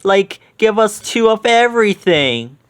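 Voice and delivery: high eager order; lightly voiced hungry Shaggy. A narrator's reading. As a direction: ask greedily for food. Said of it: "he said".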